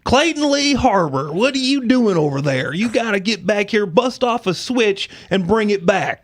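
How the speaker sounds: high, slow scolding grandma voice; Southern grandma. Retold or imitated. Grandma calling grandson to fetch a switch, scolding drawl. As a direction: call him in like a stern country grandma. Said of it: "So I had two Southern grandmas".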